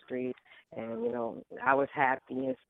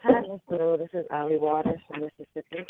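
on speakerphone; 4 semitones higher, 7 dB louder than usual. Real, not acted. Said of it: "You sound like you're on a speakerphone or away from the phone".

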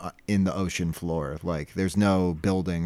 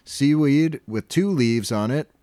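slow, raised, dramatic announcement; grand captain proclamation; 6 semitones higher, 3 dB louder than usual. Retold or imitated. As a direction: proclaim it like a treasure-hunting captain. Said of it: "Mister Krabs remarks".

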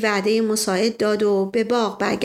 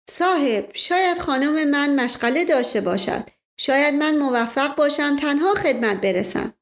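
put-on Indian-accented Persian; 5 semitones higher than usual. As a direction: play the polite Indian sardar, a touch of Indian accent. Indian man hedges.

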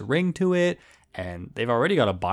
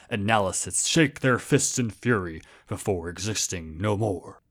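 movie trailer narrator. Shown as a demonstration. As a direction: boom it out like an epic trailer. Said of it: "try to do this with my best movie trailer narrator voice".

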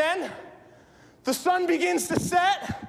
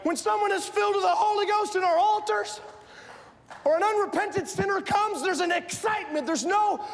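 fervent preaching. Acted. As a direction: preach it with rising zeal and excitement. Preaches with full force.

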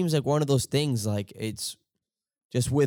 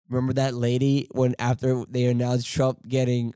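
usual speaking voice

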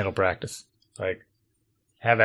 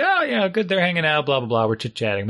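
chirpy small talk; 2 semitones higher than usual. Retold or imitated. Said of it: "and I'd say".

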